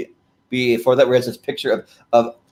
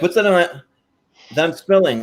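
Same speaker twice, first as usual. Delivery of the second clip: high, puzzled voice; high puzzled nerd voice; Ed Grimley sniffing; 6 semitones higher than usual. Retold or imitated. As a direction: wonder aloud what's burning. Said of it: "he's like".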